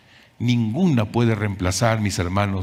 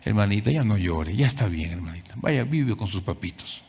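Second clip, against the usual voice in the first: soft, hushed soothing; comforting a crying sister; 4 dB quieter than usual. Acted. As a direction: gently console her. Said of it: "le voy a decir". (consolando con voz suave a la hermana que llora)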